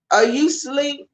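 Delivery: lightly voiced small child, pitched high; imitating three-year-old. Mother retelling her toddler's bedtime question, lightly childlike. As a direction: ask it high like a little kid. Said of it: "she was three".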